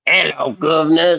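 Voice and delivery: lightly imitated British accent; mock British accent. Host copying the co-host's British greeting, mock British accent. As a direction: echo a stock British greeting. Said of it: "How do the British speak?".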